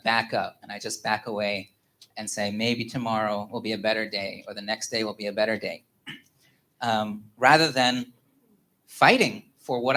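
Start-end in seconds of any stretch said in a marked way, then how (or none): 2.5-5.8 low, softer resigned tone; understated resignation; accepting defeat. Retold or imitated. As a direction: give up quietly, putting it off. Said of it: "I just kind of accept defeat".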